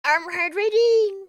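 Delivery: loud, high playful reply; sing-song it back cheekily. Real, not acted. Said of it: "Drink your water".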